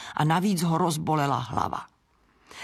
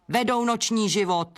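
a grumpy bat's higher squeak; peevish squeak; 4 semitones higher than usual. Acted. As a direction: snap it up high and cross. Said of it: "pískl nevrle netopýr". (nevrle pisklavý netopýr)

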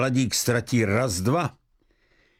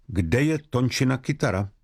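coldly. Acted. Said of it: "řekla chladně Johanka".

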